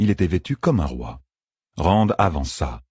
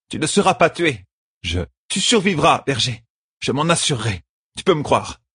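high, emphatic reassurance; Min, insistent young woman; 8 semitones higher than usual. A narrator's reading. Young woman swears Rand will not be killed, high and insistent. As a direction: insist in a much higher voice.

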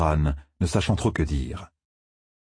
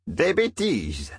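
grumbled; 9 semitones higher, much slower than usual. Acted. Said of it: "grogna Sen".

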